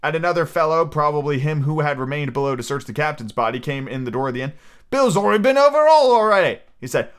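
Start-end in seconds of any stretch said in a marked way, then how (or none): 4.9-6.6 loud, high, sustained voice; called-out report. A narrator's reading. Searcher reporting to Pew, calling out high. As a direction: holler the report across.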